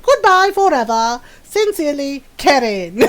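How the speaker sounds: a dramatic messenger reads the cruel letter aloud; mock breakup letter. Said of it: "I have a message from Karen".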